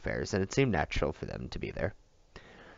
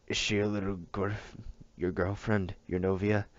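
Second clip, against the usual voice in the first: put-on old man teasing; 2 semitones higher than usual. A narrator's reading. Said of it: "The old man laughed".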